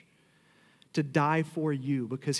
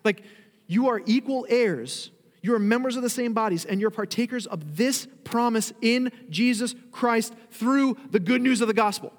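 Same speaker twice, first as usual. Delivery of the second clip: fervent rebuttal; 6 semitones higher, 5 dB louder than usual. Retold or imitated. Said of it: "And Paul's going".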